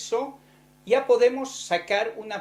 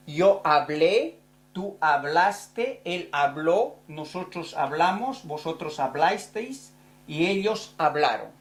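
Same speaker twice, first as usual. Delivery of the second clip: slow conjugation drill. Shown as a demonstration. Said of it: "Primero con el grupo ar, con el verbo hablar".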